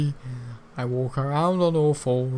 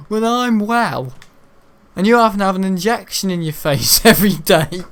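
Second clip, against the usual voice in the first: higher, louder taunting; mocking rant; 5 semitones higher, 3 dB louder than usual. Taunting the classmate who claimed to be his manager, higher and louder. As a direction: lay into him with mock scorn.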